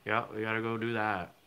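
lightly put-on Vermont accent; a hint of an old-time Vermonter. Slipping into talk with old-time Vermonters, light Vermont accent. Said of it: "hanging out with some old-time Vermonters".

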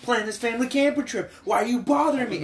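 mock-snap at her, fed up and busy; irritated yelling. Retelling the movie dad snapping at his wife over the camper trip, mock exasperated. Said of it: "slamming pots together. He's like".

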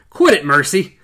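a man yanking back his blind wife, rising to a yell; cursing rough farmer building to a shrill yell; angry scolding. A narrator's reading. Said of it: "He cursed and caught her arm".

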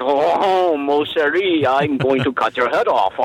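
put-on a lightly done, hammy French accent; mock French lover voice, barely put on; a half-hearted French accent for a slasher villain; bad French accent. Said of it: "him speaking in a really bad French accent".

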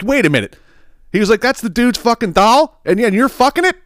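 can't believe what he's hearing; shocked disbelief. Retold or imitated. Sponsor learns whose doll it is, high shocked disbelief. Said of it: "he's like".

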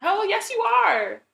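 loud high "Oh, yes, you are"; scornful retort. Acted. Answering an imagined hat wearer, loud scornful retort. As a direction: slap down the excuse slowly.

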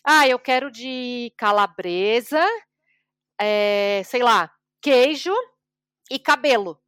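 slow, careful ordering like a beginner; slow learner's Portuguese. Retold or imitated. Scottish friend ordering pizza, slow careful beginner Portuguese. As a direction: order slowly, picking words carefully. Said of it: "ele começou".

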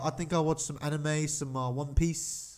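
put-on New Zealand accent. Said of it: "That was a terrible New Zealand accent".

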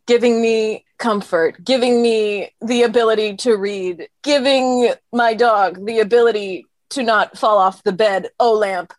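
slow, dramatic slam poem through giggles; spoken word poetry. Pretend. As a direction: recite it like a slam poet, holding back laughs. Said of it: "perform a slam poem dedicated to that lamp".

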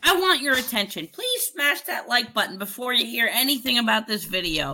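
hammed-up plea for likes in YouTuber voice. Shown as a demonstration. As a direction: parody a broadcaster-style vlogger pitch. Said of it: "YouTuber voice is like news broadcaster voice".

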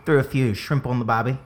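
rough put-on Australian accent. Asked for an Australian one, attempts Australian accent. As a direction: have a go at mock Australian. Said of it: "can you do an Australian one".

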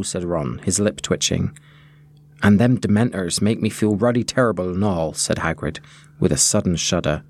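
calm read-aloud storytelling voice; story narration. A narrator's reading. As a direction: read the scene to listeners like a storybook. Reads the book passage aloud.

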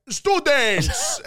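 high, loud mimicked teacher's call; imitating teacher. Teacher addressing elementary class, mimicked high voice. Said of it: "she just sounds like that".

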